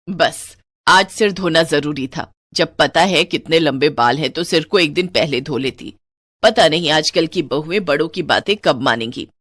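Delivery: lightly voiced disapproving elder; grumbling mother-in-law. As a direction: cut off the excuse and order her off.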